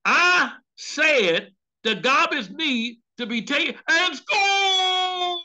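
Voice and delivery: husband yelling at the TV, half laughing; mock football fan yell, high and loud; excited shout. Husband cheering the game, shouting loud and high.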